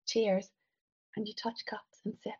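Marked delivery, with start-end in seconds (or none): 0.0-0.5 "Cheers" drawn into nearly two syllables, falling; almost two syllables. A narrator's reading. Passenger replying to his toast, "Cheers" in almost two syllables. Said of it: "you reply with your almost two syllables".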